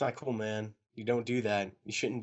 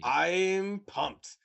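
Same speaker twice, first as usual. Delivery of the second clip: pumped up, higher drawn-out emphasis; excited; 7 semitones higher, 4 dB louder than usual. Real, not acted. Friend announcing anticipation for the new game, excited. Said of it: "I'm really excited for that".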